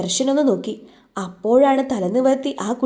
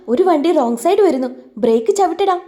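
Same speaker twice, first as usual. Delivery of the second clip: higher, louder alarmed shout to brake; urgent warning; 5 semitones higher, 4 dB louder than usual. Acted. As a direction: yell the warning at the driver. Warning friend of wrong-side scooter. (പരിഭ്രമിച്ച് ഉറക്കെ വിളിച്ചുപറയൽ)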